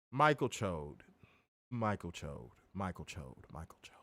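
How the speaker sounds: mocking name chant fading out; fading to a whisper.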